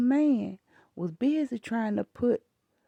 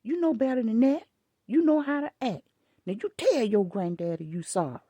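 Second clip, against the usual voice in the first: stern scolding; 4 semitones higher than usual. Retold or imitated. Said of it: "I said".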